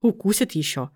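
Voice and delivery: plain reading voice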